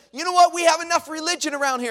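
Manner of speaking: loud high scornful retort; fed-up outburst. Retold or imitated. Stranger snapping at the preacher, loud fed-up retort. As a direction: throw it back at him. Angry man rejects the church.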